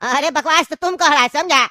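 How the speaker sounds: angry retort. Acted. Cellmate snaps back in quarrel.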